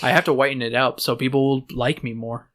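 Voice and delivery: mock Hispanic-accented protest; comic Hispanic accent passed off as real; put-on Hispanic accent. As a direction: insist in a fake Hispanic accent. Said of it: "I talk like this all the time".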